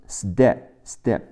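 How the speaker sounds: "step" with unaspirated T, like "sdep"; T turned to D. Shown as a demonstration. Teacher demonstrating for learners, "step" pronounced with D for T. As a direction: say the T in "step" as a D after S. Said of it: "T的发音，t变成的".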